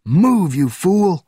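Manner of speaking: high, loud yell; impatient, insulting shout; angry order. A narrator's reading. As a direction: bark it to get someone moving. Yelling an order at officer.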